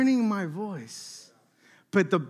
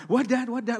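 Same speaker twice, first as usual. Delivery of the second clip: submissive; 3 semitones higher than usual. Retold or imitated. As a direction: play the obedient kid answering Dad. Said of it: "Like all submissive".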